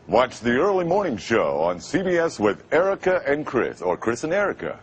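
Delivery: light TV promo read on request; lightly pitched morning-show announcer. Shown as a demonstration. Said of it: "Give it a shot. Go ahead".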